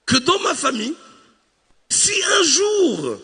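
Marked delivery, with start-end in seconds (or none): 1.9-3.2 dramatic slow buildup. Acted.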